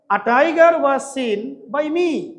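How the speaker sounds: each word spaced out for copying; slow dictation. Shown as a demonstration. Teacher dictating the passive sentence to the class, very slowly. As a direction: read it out slowly so students can write. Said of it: "তখন কি হবে?".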